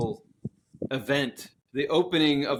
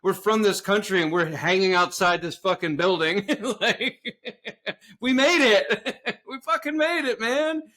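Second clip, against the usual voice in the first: much higher, laughing through the words; breathless laughing glee, much higher; laughing disbelief; 6 semitones higher than usual. Retold or imitated. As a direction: cackle with giddy triumph. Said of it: "I can only imagine them being like".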